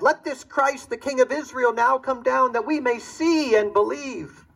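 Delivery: an elder sneering at the dying king; sneering mockery. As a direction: draw out the taunt with contempt. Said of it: "One man said".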